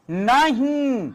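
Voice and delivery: नहीं with the nasal ring carried through the nose. Shown as a demonstration. Teacher showing students the nasal sound in नहीं. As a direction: let नहीं hum through the nose on its vowel. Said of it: "देखो नाक भन्ना रही है".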